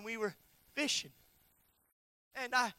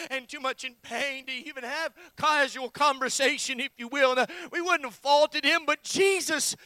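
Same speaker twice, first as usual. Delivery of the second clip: building preaching; 3 semitones higher, 8 dB louder than usual. Real, not acted. Preacher on not faulting Jesus, building preaching. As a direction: drive the point up to a loud peak.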